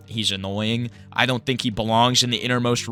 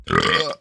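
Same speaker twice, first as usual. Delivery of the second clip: burp. Real, not acted. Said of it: "root beer is really coming up".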